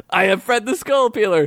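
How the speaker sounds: proud, booming boast; boasting warrior. Acted. Fred boasting to Gregory, proud warrior boast. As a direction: puff up and brag.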